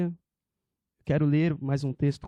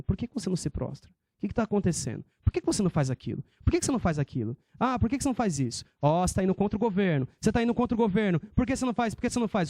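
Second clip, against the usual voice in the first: quick, pushy repeated questions, pitched up; nagging servants; 4 semitones higher, much faster than usual. Retold or imitated. King's servants pressing Mordecai at the gate, rapid nagging questions. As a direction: needle him over and over, faster and faster. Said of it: "Ficaram todo dia falando".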